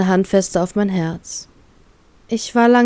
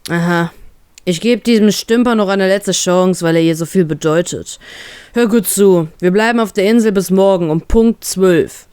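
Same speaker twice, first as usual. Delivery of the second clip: growling. Acted. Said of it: "knurrt er den Bären an".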